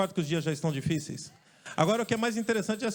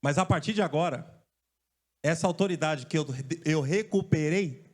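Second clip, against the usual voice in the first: Jesus rebuking demons; slower than usual. Retold or imitated. Jesus voiced addressing the demons.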